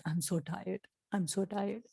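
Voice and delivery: soft, tired, drawn-out complaint; tired sigh. Shown as a demonstration. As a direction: say it like you are worn out. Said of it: "मैं तो रोज बोलती हूँ". (थकी हुई, धीमी आवाज़ में)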